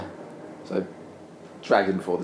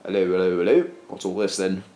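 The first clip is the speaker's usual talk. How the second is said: a hint of a London copper's hello hello; stock British bobby. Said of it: "that's exactly how police officers in Cardiff sound".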